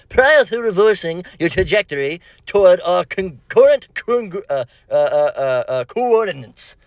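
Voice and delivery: lightly voiced stuffy academic; a hint of a droning lecturer; academic jargon voice. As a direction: read it like a pompous professor, mildly mocking. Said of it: "Here's an academic jargon version".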